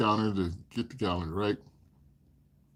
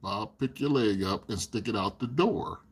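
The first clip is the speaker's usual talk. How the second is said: patient coaxing; 4 semitones lower, 6 dB quieter, slower than usual. Retold or imitated. Coaxing slowly.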